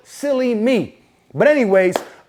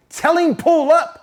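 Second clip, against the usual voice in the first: high, slow, drawn-out taunt; defiant dare; 8 semitones higher, slower than usual. Retold or imitated. Man daring her brother to come fight, defiant dare. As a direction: act out a cocky challenge, stretched out.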